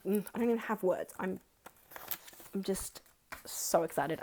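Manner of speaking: ordinary talk, nothing marked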